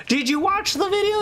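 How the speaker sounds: high, incredulous question; retold exasperation. Streamer retelling his incredulous high question to the viewer. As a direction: ask in disbelief.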